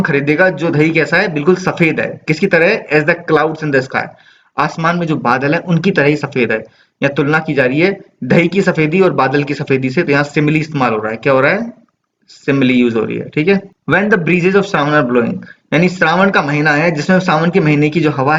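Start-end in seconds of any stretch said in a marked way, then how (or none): 2.9-4.1 slow, measured recitation of the verse; poem reading. Acted. Reading poem line slowly. 13.9-15.3 slow, measured recitation of the verse; poem reading. Acted. Reading poem line slowly.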